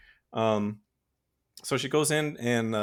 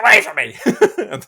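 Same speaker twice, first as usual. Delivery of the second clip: loud, higher mock yell; 8 semitones higher, 11 dB louder than usual. Hero yelling at family trying to help, mock yell. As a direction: snap it like a scared man pushing them off. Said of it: "He's just like".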